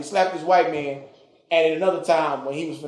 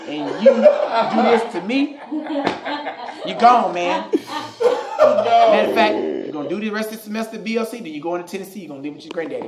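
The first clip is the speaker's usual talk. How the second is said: higher and louder hammed-up scolding; mock angry dad; 6 semitones higher, 4 dB louder than usual. Father banishing his son to granddaddy, hammed-up yell. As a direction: bellow like a fed-up father.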